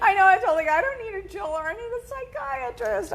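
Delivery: high-pitched, through laughter; laughing retelling. Retold or imitated. Host jokes about needing a psychiatrist over shopping, laughing high. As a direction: joke through giggles, voice climbing. Joking retold line about jewelry addiction.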